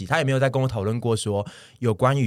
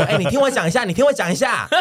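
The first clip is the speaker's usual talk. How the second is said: pleading to be heard; 10 semitones higher, 4 dB louder than usual. Retold or imitated. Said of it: "然后我就一直说".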